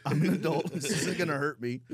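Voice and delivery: laughing through a shaky reassurance; chuckling, trying to sound brave; laughing nervous self-talk. Retold or imitated.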